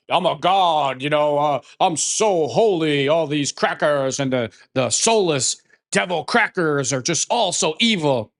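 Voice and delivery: sneering impression of a smug self-righteous man; mocking Ryan Clark. Mocking a rival commentator before God, smug sneer. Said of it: "will stand before God and be like".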